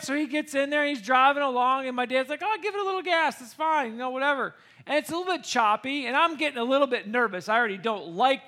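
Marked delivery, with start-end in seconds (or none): 2.4-4.5 higher-pitched, easygoing mock dad; breezy dad. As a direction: wave off any worry, starting high. Dad breezily urging son on.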